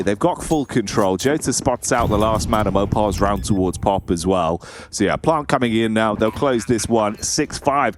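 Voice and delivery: steady esports caster commentary; running match commentary; live play-by-play. Real, not acted. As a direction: call the round as it happens.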